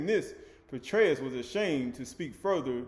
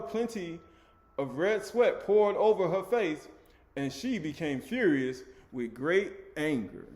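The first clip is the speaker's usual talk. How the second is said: raised, declamatory reading voice; emphatic scripture reading; 3 semitones higher, 4 dB louder than usual. A narrator's reading. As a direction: read the scripture out with punched key words. Reads scripture aloud to listeners.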